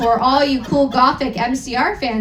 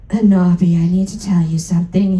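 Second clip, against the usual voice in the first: serious Hagrid; 6 semitones lower, 3 dB louder, faster than usual. Acted. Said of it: "he said in a V serious voice".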